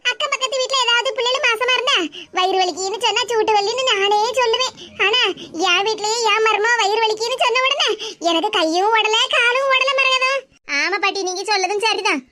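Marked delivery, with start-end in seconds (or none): 0.1-10.3 put-on older woman's voice, easing into relief; relieved grandmother. Grandmother telling Maragatha how scared she was, relieved. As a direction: grandmother letting out her worry now it's over.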